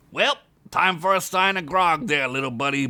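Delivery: cheery orc voice; orc jovial. Acted. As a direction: orc heading for a drink.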